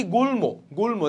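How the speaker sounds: গুল্ম as gul-mo; m fully sounded. Shown as a demonstration. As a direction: keep the m in গুল্ম. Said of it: "ম উচ্চারণ কি আমরা পাচ্ছি".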